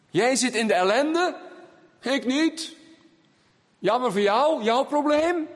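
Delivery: hammed-up not-my-problem tone; mock indifference. Preacher mimics a churchgoer ignoring another's grief, mock indifference.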